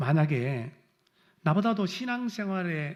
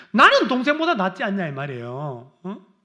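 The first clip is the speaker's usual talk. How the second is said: self-righteous brother; 7 semitones higher, 9 dB louder than usual. Retold or imitated. Elder son's self-righteous voice.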